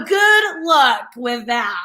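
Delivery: slow dry sarcasm; wishing the ex luck with the kids, slow and sarcastic. Retold or imitated. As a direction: drag it out, mocking his confidence. Sarcastic wish to ex.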